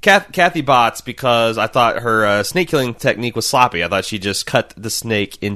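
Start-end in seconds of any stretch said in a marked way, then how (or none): 0.0-1.0 a playful "Kathy Bots" with "Bots" not "Bates"; Kathy Bots, said higher. Shown as a demonstration. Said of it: "start calling her Kathy Bots now".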